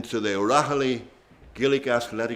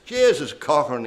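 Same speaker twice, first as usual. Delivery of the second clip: a Dundalk man's exclamation, a bit raised, "Jesus Cochran"; Dundalk accent; 4 semitones higher, 5 dB louder than usual. Retold or imitated. Paddy Turrell at the bar exclaiming to Sean Cochran, Dundalk accent. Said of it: "he says, in a Dundalk accent".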